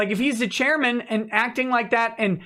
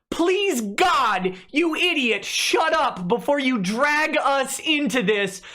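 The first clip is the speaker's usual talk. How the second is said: exasperated pleading; 2 semitones higher than usual. Retold or imitated. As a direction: beg an idiot to stop, in mock despair. Imagined exasperated staff begging.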